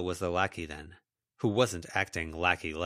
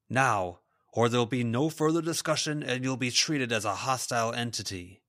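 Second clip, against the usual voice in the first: firm, slightly raised teacher's ultimatum; stern warning; 4 semitones higher than usual. Acted. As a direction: warn her with authority. Raymond threatens Lila.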